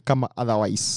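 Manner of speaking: "otherwise" said the local, non-standard way; wrong-way pronunciation. Shown as a demonstration. Host showing English words said the wrong way, deliberate mispronunciation. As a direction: say "otherwise" with a homegrown accent. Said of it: "say it the wrong way".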